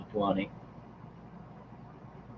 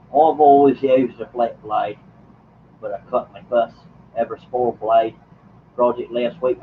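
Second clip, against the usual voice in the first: Australian accent imitation. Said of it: "imitate your accent in a male voice".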